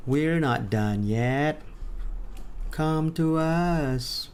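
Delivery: slow, drawn-out lightly voiced beckoning; game items calling. Unfound tables calling the player back, slow beckoning. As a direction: stretch the words like a mild siren call. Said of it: "to tell me like".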